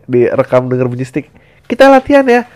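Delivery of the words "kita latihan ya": high, loud "Kita latihan ya"; band member voice. Acted. Bandmate calling practice start, raised voice.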